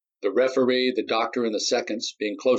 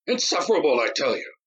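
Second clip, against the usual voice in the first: much higher, breaking Insufferable; near tears; 7 semitones higher than usual. A narrator's reading. Nadi near tears over the insults, breaking. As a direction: Insufferable pushed up toward tears.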